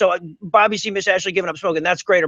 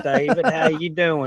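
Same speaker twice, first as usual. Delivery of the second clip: put-on hick voice; 3 semitones lower, slower than usual. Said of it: "so I figure I'd talk like this".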